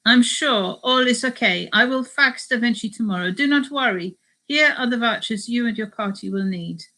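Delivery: reassuring, lightly attempted Spanish accent; amateur Spanish accent. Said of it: "doing a Spanish accent".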